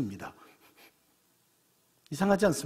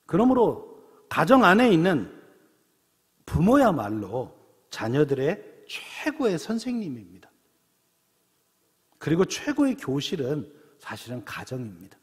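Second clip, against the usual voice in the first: preaching emphasis; 4 dB louder than usual. Acted. Preacher's key point, raised voice.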